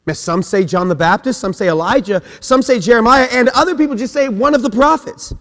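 full-voiced pulpit preaching, rising and driving. Preacher driving home his point to the church, full force. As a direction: preach it out to the congregation.

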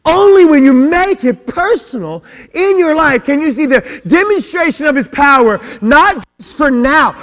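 full-voiced pulpit preaching, rising and driving. Preacher urging the congregation to make it personal, =79. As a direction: build it up and hammer it home.

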